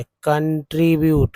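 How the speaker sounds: कंट्रीब्यूट said slowly, clearly sounding ट्री in the middle; slow teaching demo. Shown as a demonstration. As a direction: spell out कंट्रीब्यूट slowly for the class. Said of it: "टीआरआई को ट्री बोलते हैं".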